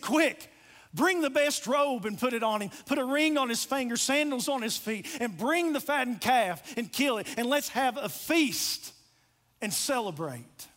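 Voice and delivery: acted-out excitement of a rejoicing father; excited father. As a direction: give eager orders to servants, mildly excited. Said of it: "listen to his excitement".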